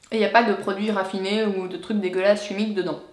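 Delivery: talking while chewing; mouth full. Real, not acted. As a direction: speak through a mouthful of chocolate. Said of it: "je parle la bouche pleine".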